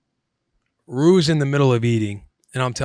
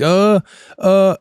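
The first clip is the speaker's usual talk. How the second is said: louder, higher gasping grunts, mimicked; imitated panicked choking; 5 semitones higher, 5 dB louder than usual. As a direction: act out struggling to get air.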